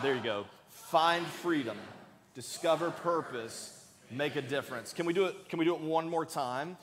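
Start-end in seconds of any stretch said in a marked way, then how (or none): 0.7-4.9 leading group recitation. Shown as a demonstration. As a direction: draw each phrase out so all can join. Leads congregation saying it together.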